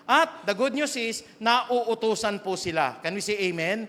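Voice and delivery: slow, loud preaching of good news; loud, slow sermon declaration; emphatic proclamation. Real, not acted.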